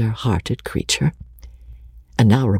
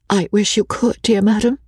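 higher, plaintive near-tears voice; tearful tone; 8 semitones higher than usual. A narrator's reading. Rebecca to the consoling old lady, tearful. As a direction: plead as if close to tears. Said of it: "in the same tearful tone".

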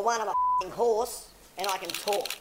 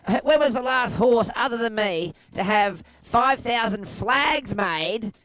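boastful; 4 dB louder than usual. Acted. Horse boasting to the hosts.

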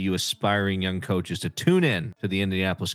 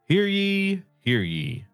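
town crier; 12 semitones higher, slower than usual. Acted. Coach opens pick like town crier.

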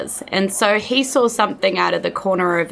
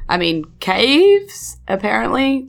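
lightly raised, eager shopkeeper; chatty shop owner, a bit higher; 5 semitones higher than usual. Acted. GM voices the shopkeeper NPC.

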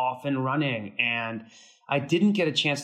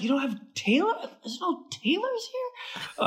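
mock disbelief; 12 semitones higher than usual. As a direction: play it like it's absurd. Mocking disbelief at the excess.

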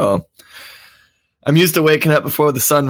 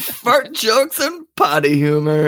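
high, hammed-up announcer welcome; mock show intro; 9 semitones higher than usual. Mock show intro after host's question.

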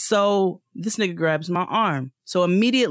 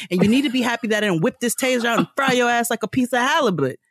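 a bit higher, fast, firm telling-off; retold angry scolding; 4 semitones higher than usual. Scolding the stranger who grabbed her arm, firm angry telling-off. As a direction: put him firmly in his place.

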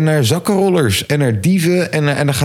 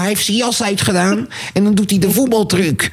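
lightly imitated excited report, pitched up; Boevenspotter; 5 semitones higher than usual. Thief spotter reporting a luggage thief, lightly mimicked excitement. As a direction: give a hint of an eager amateur thief catcher. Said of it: "De boevenspotter".

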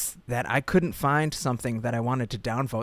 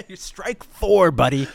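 laughing jab; 5 semitones higher, 7 dB louder, slower than usual. Real, not acted.

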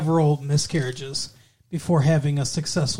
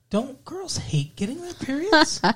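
high voice; 8 semitones higher than usual. Retold or imitated. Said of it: "I remember thinking, like".

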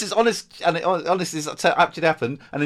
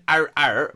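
mild, spoken-out bark syllables; dog bark; 6 dB louder than usual. Shown as a demonstration. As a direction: sketch a dog's bark. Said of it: "It's, it's like going".

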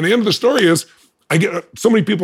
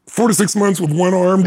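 four to six months with one arm, pitched higher in disbelief; incredulous echo; 5 semitones higher than usual. Real, not acted. Echoing the doctor's rehab estimate in disbelief. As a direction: repeat it back like it's absurd.

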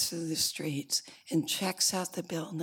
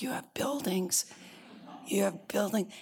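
mildly amazed, pitched up; surprised questioning; 3 semitones higher than usual. Retold or imitated. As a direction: echo it in gentle disbelief. Horton astonished at the tiny people.

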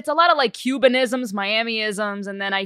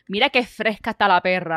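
fast casual Spanish aside; quick Cuban Spanish; 4 dB louder, faster than usual. Retold or imitated. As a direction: rattle off the Cuban phrase. Quoting her Spanish phrase.

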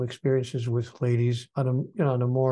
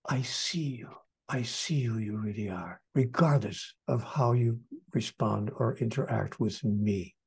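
gentle sincere declaration; 3 dB quieter than usual. Pretend. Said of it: "look them square in the face and say".

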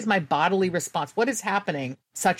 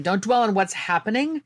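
self-talk; 5 semitones higher than usual. Retold or imitated. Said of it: "that was me saying".

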